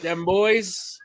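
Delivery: fast and loud gloat; excited gloating. Real, not acted. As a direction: rub it in, fast. Gloating about his team.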